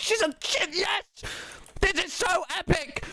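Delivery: high-pitched gushing excitement; excited squeal. Retold or imitated. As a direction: squeak it out like a thrilled fan. Retelling his excited reaction.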